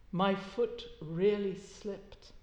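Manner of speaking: a slow, cooing confession. Acted. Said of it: "she said in her cooing way".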